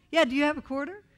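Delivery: put-on high, loud kid's plea; little boy voice. Little boy begging a stranger for a quarter, high loud kid voice. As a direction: pipe up like a small boy asking a stranger.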